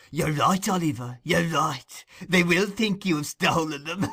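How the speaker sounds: put-on gleeful old man, chuckling through it; a hint of sly glee. Fagin gloating to Oliver, chuckling. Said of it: "chuckled the Jew".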